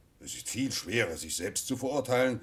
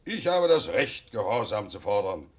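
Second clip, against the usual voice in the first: commanding; 7 dB louder than usual. Acted. King asserts his authority.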